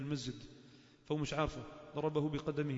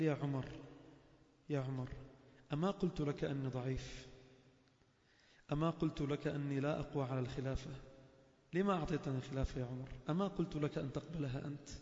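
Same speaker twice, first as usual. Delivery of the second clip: gentle reply. Acted. Abu Bakr gently answers Umar.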